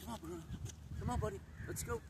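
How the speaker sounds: very high, light coaxing call; coaxing the dog. Real, not acted. Trainer urging a nervous dog along, high coaxing call.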